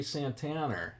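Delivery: Boston accent with an R added at the end of "Santana". Real, not acted. Streamer slips while chatting to viewers, Boston accent. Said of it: "that was my Boston accent".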